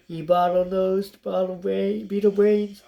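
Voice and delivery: a sea captain berating his crew, building to a loud roar; insulting roar. Acted. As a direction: bellow insults at the lazy crew.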